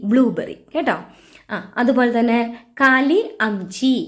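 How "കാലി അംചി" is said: slow drill. Shown as a demonstration. Teacher introduces Hindi blackberry.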